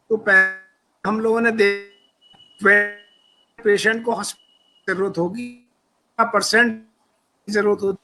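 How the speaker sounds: echoing call line. Real, not acted. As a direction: voice bouncing back with echo. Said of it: "आपकी तरफ से इको आ रही है". (इको वाली आवाज़)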